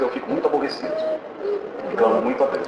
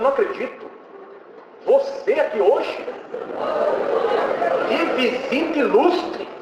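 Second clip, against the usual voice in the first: high, drawn-out mock astonishment; amazed greeting; 12 semitones higher, slower than usual. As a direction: stretch each word out high, as if welcoming a celebrity. Porter greets him, astonished.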